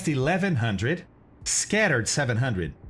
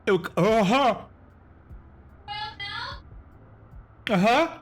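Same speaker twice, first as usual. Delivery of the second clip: nervous dread; 10 semitones higher, faster than usual. Real, not acted. Dreading the coconut jelly bean.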